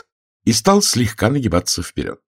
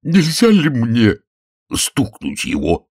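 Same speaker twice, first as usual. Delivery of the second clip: pleading; 3 semitones higher than usual. A narrator's reading. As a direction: beg for permission, dragging it out. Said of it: "взмолился полисмен".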